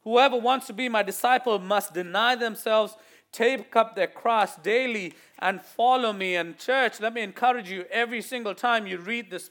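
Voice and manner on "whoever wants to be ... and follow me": proclaimed scripture. Acted. Preacher proclaiming the verse to church, emphatic. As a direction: declare the verse.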